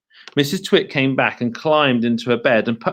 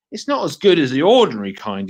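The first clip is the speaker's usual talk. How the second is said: mouth full; 3 dB louder, faster than usual. Acted. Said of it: "talking with his mouth full".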